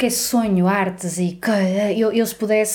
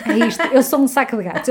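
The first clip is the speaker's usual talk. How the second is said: emphatic; 5 semitones higher than usual. Real, not acted. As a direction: proclaim it proudly. Repeats her phrase for effect.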